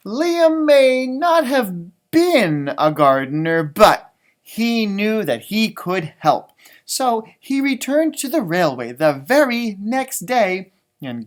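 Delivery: measured picture-book reading; storybook reading voice; story narration. A narrator's reading. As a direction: read it out to children, unhurried. Reads the book aloud.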